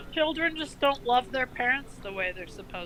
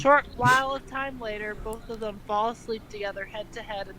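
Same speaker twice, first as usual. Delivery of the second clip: loud mock reading; 9 dB louder than usual. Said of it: "reading fanfic aloud".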